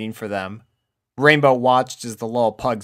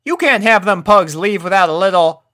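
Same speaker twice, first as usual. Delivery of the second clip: Applejack voice; 9 semitones higher, 7 dB louder than usual. A narrator's reading. Applejack cut off.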